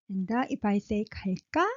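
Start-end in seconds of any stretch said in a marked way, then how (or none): 1.0-1.7 low pitched. Shown as a demonstration. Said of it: "low pitched".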